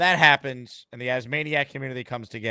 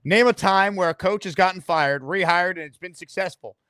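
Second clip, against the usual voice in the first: heated rant; 4 semitones higher, 4 dB louder than usual. Real, not acted. Host rants at comment.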